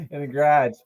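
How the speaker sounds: half-successful mock Boston accent; playful stab at a Boston accent. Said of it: "I'm not good at that".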